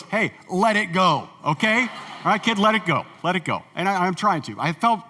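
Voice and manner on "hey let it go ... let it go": amused retold advice. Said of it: "he starts laughing, and he goes".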